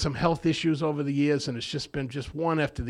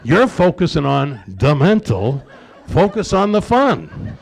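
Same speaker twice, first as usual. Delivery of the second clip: laughing; 3 semitones higher, 12 dB louder, slower than usual. Real, not acted. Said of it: "laughing punchline".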